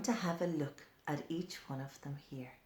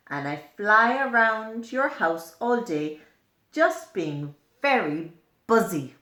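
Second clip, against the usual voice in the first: louder, busy buzzing fly voice; a fly bragging about buzzing round the house; fly character; 7 dB louder than usual. Acted. Fly speaks in the book.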